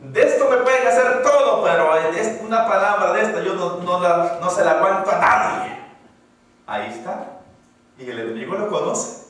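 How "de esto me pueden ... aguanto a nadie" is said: defiant boast. Retold or imitated. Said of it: "¿Ha oído eso?".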